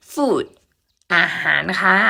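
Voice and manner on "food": "food" with long oo, high then falling; model pronunciation. Shown as a demonstration. Teacher models "food" for students, model pronunciation. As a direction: pronounce "food" with a long vowel and final d. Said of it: "Say it again".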